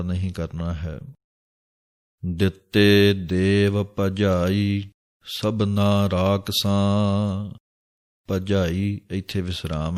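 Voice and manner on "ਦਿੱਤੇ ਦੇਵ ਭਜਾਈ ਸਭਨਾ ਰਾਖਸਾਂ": slow, drawn-out chanting of the verse; scripture recitation. Acted. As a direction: intone each word slowly like a reading of Gurbani. (ਹੌਲੀ ਹੌਲੀ ਬਾਣੀ ਦਾ ਪਾਠ)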